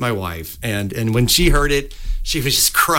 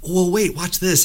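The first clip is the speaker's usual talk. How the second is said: higher, eager coaxing; coaxing bum; 7 semitones higher, slower than usual. Retold or imitated. Bum coaxing the girl, higher and eager. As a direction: win her over, pitched up. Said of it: "he's like".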